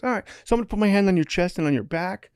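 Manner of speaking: calm Australian instruction; Australian accent. Retold or imitated. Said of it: "he's Australian".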